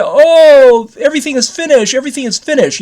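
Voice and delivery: high mock wail, opening on a loud "Oh"; imitated crying wail. Crying old man in a dream announces the end, imitated wail. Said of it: "And he's crying".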